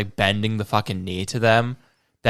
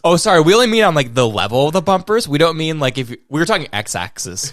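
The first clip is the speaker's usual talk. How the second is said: mock dealership clerk; 4 semitones higher than usual. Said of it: "mock dealership excuse".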